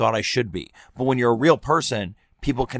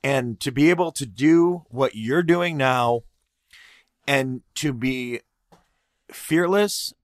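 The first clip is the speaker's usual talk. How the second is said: getting emotional. Real, not acted. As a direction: voice catching with real emotion, long pauses. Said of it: "oh my God, I'm getting emotional".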